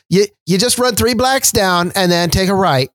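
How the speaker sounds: imitated Chicago accent. Repeating a local's street directions, mock Chicago accent. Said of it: "introduced to the Chicago accent".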